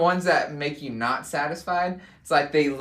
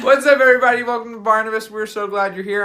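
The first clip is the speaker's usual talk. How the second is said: ice in mouth; 5 semitones higher, 8 dB louder, faster than usual. Real, not acted. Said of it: "I'm chewing ice right now".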